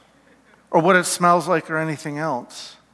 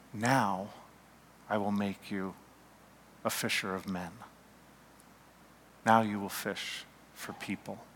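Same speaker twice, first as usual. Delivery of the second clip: gentle promise; 7 semitones lower, 13 dB quieter than usual. Acted. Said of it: "in compassion and love and forgiveness".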